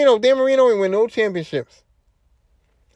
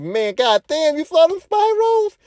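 amazed fan; 5 semitones higher than usual. Retold or imitated. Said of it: "you're like".

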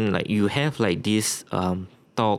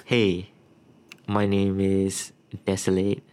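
nervous rambling; 3 dB louder than usual. Real, not acted. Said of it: "Why do you sound so nervous?".

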